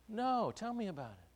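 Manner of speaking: eager friend. Retold or imitated. Friend asks for the gossip.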